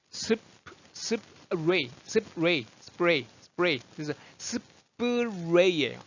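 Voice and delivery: "스프레이" split as "습-레이", then blended with English r; spray broken down. Shown as a demonstration. Teacher breaking down spray, "스프레이" with strong r. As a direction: build up "스프레이" slowly from held p into rounded r. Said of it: "R 사운드".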